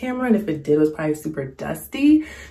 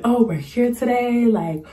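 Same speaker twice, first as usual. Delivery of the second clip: lightly voiced excited actor, pitched higher; imitating the actor; 5 semitones higher than usual. A hint of an actor greeting fans on camera. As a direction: hype it up like filming for fans. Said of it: "He was like".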